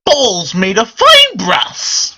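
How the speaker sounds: leprechaun. Pretend. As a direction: proclaim it like a leprechaun. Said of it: "I sound just like the fucking leprechaun".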